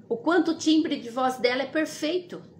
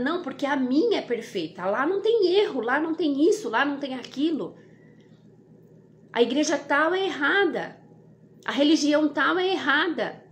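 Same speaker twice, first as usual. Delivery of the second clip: mildly mock-argumentative, pitch lifting; imitating people squabbling; 3 semitones higher than usual. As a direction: lightly act out church members bickering. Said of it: "Eu vejo muita gente brigando".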